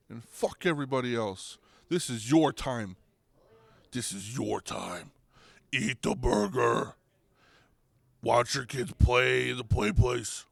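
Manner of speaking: lightly voiced Grimace talking you into calm; Grimace, calmer. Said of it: "He's like".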